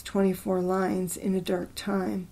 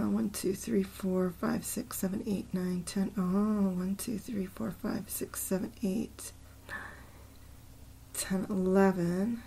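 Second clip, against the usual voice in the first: softer half-whispered syllable count; counting under breath; 7 dB quieter than usual. Real, not acted. Counting a poem's syllables to himself, half-whispered. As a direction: mutter the count to yourself.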